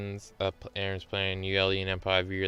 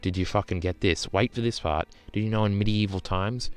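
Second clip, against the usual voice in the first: mocking the counter-argument; 2 semitones higher than usual. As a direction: ham up a condescending debater. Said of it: "counter-argument would be".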